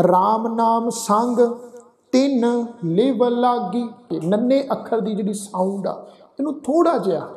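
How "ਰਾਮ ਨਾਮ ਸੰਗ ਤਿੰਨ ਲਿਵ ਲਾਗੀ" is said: slow, measured recitation; slow gurbani recitation. Acted. Teacher reciting gurbani verse slowly to students. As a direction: recite each word apart, devoutly.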